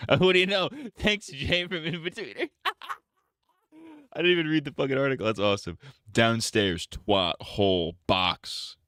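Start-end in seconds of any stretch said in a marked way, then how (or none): 0.1-5.2 high mock voice. Mocking thanks to Jay.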